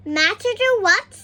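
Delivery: a concerned odd little man; back-to-front asking. A narrator's reading. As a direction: ask it kindly, all back to front. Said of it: "he asked it".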